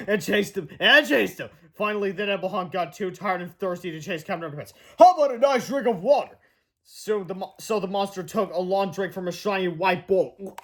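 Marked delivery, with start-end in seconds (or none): 5.0-6.4 coaxing hero voice. Acted. Hero lures monster.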